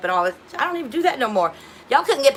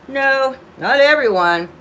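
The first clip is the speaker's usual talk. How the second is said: mock denial; 3 semitones higher, 6 dB louder, slower than usual. Real, not acted. Correcting a joking comment.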